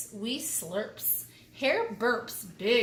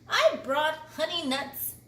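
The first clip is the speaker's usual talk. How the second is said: bright, louder cheerful badger; grinning badger; 5 semitones higher, 4 dB louder than usual. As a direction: say it with a grin. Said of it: "Badger says with a grin".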